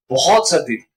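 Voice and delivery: बहुत stretched and pushed; stress on बहुत. Shown as a demonstration. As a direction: lean on बहुत. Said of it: "आमतौर पे इतनी नहीं होती". (बहुत को खींचकर)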